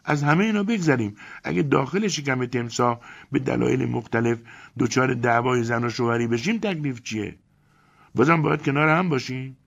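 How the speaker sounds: very high, loud indignant woman's voice; outraged yelling. Acted. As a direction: Elena rants about entering the crocodile, outraged. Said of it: "داد و غار را انداخت".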